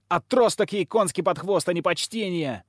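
high-pitched indignant squealing; shrieky child's outburst, high; girl's squeal. A narrator's reading. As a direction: squeal it out like a furious little girl. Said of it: "взвизгнула девочка".

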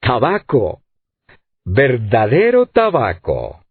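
slow, savoring, mildly rapturous repetition; a lightly voiced sailor drawing it out in bliss; delirious delight. A narrator's reading. Sailor overjoyed by real tobacco, mildly delirious voice. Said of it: "una voz delirante que repetía".

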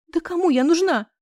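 high tearful squeak. A narrator's reading. Crying girl squeaks at her friend, high and tearful. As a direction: blurt it out through tears. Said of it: "вякнула я".

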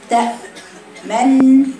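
very slow تأمن with the lips rounded on the ن; ishmam demo. Shown as a demonstration. Teacher showing students how she reads the word. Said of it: "شوفي أنا بقرأها إزاي".

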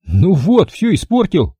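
disappointed drone. A narrator's reading. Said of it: "разочарованно прогудел он".

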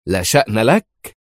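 slow, incredulous echo question; indignant. A narrator's reading. Foreign minister challenging the director's denial, indignant. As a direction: throw it back in disbelief, drawn out. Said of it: "هتفت وزيرة الخارجية مستنكرة".

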